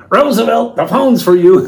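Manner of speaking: high, loud call for Roosevelt; a sing-song yell that the phone is for him; calling out across the house. Retold or imitated. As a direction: shout it through the house so he hears. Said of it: "you could hear him go".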